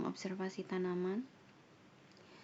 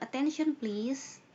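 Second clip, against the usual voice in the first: calling out; 4 semitones higher, 4 dB louder, slower than usual. Shown as a demonstration. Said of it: "Kalau nggak".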